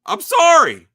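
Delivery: loud high I'm sorry; shouted apology. Acted. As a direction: blurt it out at full volume. Sudden shouted outburst.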